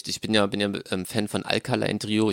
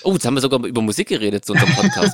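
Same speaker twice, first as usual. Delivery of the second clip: lachend; 5 dB louder, faster than usual. Real, not acted. Amüsiert über eigenen Podcast.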